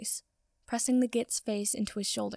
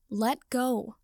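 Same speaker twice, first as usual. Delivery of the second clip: louder, pushed out through pain; strained voice; 4 dB louder than usual. Acted. Potter in pain telling Draco to release, strained. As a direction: squeeze the words out under strain. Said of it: "in a strained voice".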